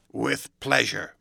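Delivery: drawn-out, odd-toned Hyde; slowly, with false politeness; slow sinister courtesy. A narrator's reading. Hyde's slow odd reply.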